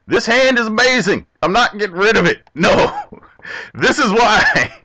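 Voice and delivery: hammed-up sarcastic excitement; sarcastic glee. Real, not acted. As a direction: oversell how great it is, ironically. Sarcastic overjoy at bad hand.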